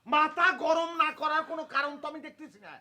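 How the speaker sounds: indignant, carrying protest; shouting complaint. Acted. Son-in-law complains to wife of being undervalued, shouting. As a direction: rant for the whole house to hear. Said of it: "এরকম চিৎকার চেঁচামেচি করছে".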